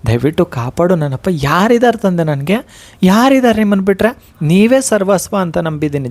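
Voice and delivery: pleading with the guru in pain; demonstrating a pained plea to the guru; anguished prayer. Shown as a demonstration. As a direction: pour out your hurt to Rayaru, begging. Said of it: "ನೋವನ್ನೇ ನಾನು ಹೇಳ್ತೇನೆ ಕೇಳಿಸ್ಕೊಳ್ಳಿ".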